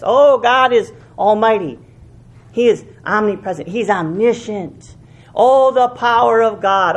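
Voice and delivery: lightly voiced mock piety; a hint of sing-song devotion; mock pious. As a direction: parrot churchy praise, a bit hammed. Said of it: "we say it with our lips".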